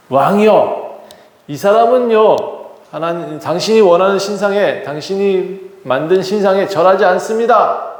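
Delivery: lightly acted informers pleading their case; tattling accusers. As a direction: complain to the king like a tattletale. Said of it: "라고 참소해요".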